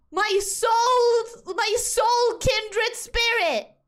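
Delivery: high, drawn-out melodramatic plea; mock-dramatic. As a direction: build it up into over-the-top devotion. Exaggerating alternatives for the word mate.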